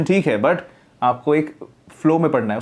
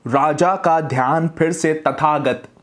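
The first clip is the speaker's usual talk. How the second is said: slow, mouth opened wide on every syllable; over-open the jaw, slowly; 3 semitones higher, slower than usual. Shown as a demonstration. Teacher shows the student how to open the jaw when reading, slow and wide-mouthed. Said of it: "जितना ज़्यादा open होकर बोल सकें बोलिए".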